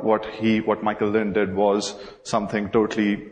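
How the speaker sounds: ordinary talk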